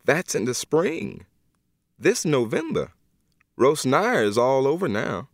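put-on a stern old godmother setting him straight; Miss Emma. Miss Emma voiced by narrator.

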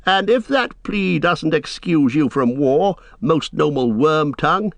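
put-on scornful young warrior; amused mockery. A narrator's reading. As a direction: taunt the coward with mock courtesy. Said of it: "Eomer laughed".

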